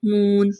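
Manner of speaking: moon with oo drawn out; moon, oo held level; long oo in moon. Shown as a demonstration. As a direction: stretch the vowel of moon. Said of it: "double ओ का sound है".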